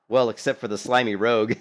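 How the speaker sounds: a teasing dig with a laugh; laughing jab. Retold or imitated. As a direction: laugh through "Well, except for the slimy rogue". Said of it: "and I said".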